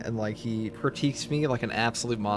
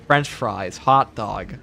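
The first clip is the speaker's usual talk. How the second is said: imitated British accent; much slower than usual. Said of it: "in his best British accent".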